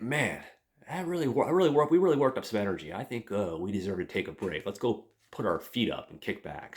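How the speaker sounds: high, loud, fast cheer about the clever plan; pumped-up kid bragging; excited boys. Retold or imitated. Boys cheering after hosing dishes.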